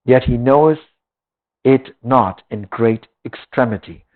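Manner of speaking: measured, solemn Bible reading; scripture reading. Acted. Preacher reading Job to the congregation, solemn scripture voice. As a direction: read the old words with weight. Reads Job aloud in sermon.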